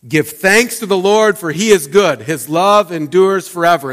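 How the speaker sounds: joyful mock shout of praise; crowd's shout. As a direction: call it out like the crowd at the temple. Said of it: "they would shout that over and over".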